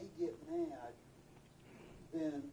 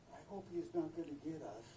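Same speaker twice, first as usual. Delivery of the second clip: softer, quick fearful aside; hushed worry; 5 dB quieter, faster than usual. Retold or imitated. Camper hiding in his tent, hushed quick worry. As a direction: say it small and fast, hiding.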